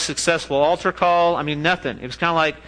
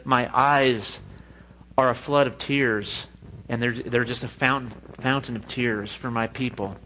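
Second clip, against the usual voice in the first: lament; 4 semitones lower, 4 dB quieter than usual. Acted. Quoting weeping Jeremiah.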